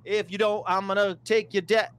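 loud, high hammed-up vegan rant; mock rant. Testing the mic with a mock vegan rant, loud and high. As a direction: shout it like a street preacher. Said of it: "Something like that".

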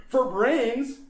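zombie growl. Acted. Zombie hunger described.

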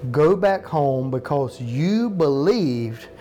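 slow, deliberate "Go back home because you believed"; emphatic underlined reading. Shown as a demonstration. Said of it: "understand these underlines".

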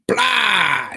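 loud, high blast noise; imitated gunshot. Safecracker shoots the wife, spoken gunshot noise. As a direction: shout a cartoon gun blast.

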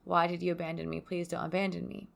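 mild retold plea to be kept, half-voiced; retold begging.

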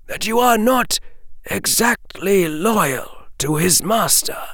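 put-on far older voice. A narrator's reading. Dumbledore telling Harry of lost students, aged and grieving. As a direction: sound ancient and weary, as if centuries old.

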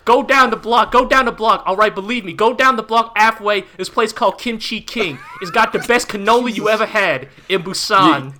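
a hint of New York street-guy accent; bad New York accent. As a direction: give directions like a Brooklyn local. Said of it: "doing extremely bad New York accents".

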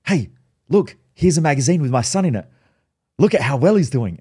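lightly acted proud-parent boasting; proud mum. Mum shows friends her son in a magazine, imitated pride. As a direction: show him off like a proud mum. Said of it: "she's so fucking proud of me".

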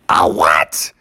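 low, startled question; baffled Mother Bear. Acted. Mother Bear questioning Sister Bear, baffled. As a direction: drop low in disbelief.

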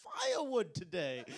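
lightly voiced posh British child, high in places; a hint of a little Victorian English boy; mock Oliver Twist asking politely. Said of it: "Just a little Oliver Twist".

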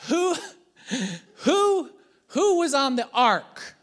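high, loud, slow quiz question; acted-out quizzing. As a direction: play a dad drawing out the question. Father acting out quizzing his daughter.

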